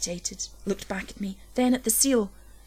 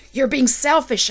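louder, higher accusing shout; 5 semitones higher, 7 dB louder than usual. A narrator's reading. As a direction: hurl the accusation at her. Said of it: "I shouted".

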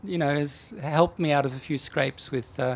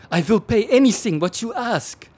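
put-on German accent; 9 semitones higher, 7 dB louder than usual. Panicked German husband on phone.

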